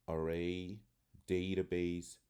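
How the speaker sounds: "array" and "database" with A said as "ay"; long A sound. Shown as a demonstration. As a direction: stretch the stressed A in "database" into "ay". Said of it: "It usually makes the long A sound".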